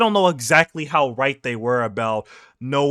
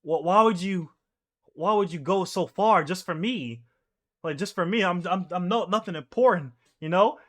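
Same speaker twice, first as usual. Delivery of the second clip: inner doubt; 4 semitones higher than usual. Retold or imitated. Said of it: "in his head, he's, like, thinking".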